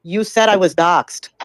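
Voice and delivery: "You said I was doxxed", slow and measured; slow insistent repeat. Real, not acted. Pressing an accuser who denies it, slow and deliberate. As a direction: spell it out slowly, word by word. Repeats it slowly once uninterrupted.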